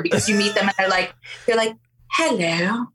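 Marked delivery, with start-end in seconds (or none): 2.1-2.9 lightly put-on British child voice; vaguely British accent. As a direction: imitate a kid with a faint British accent. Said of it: "it's, like, a vaguely British accent".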